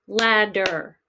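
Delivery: ladder in two slow beats, lad-der; clapped syllables. Shown as a demonstration. Teacher listening for the break, ladder in two slow beats. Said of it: "we're gonna clap these out again".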